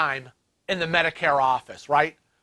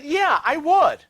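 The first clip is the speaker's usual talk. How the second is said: 1 pointed yes; 11 semitones higher, 4 dB louder, slower than usual. Retold or imitated. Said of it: "And I said".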